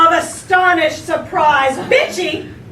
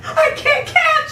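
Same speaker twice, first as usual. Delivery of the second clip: higher, broken mock sob; stammering through tears; 10 semitones higher, slower than usual. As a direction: stutter it out as if crying. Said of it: "stammering through her tears".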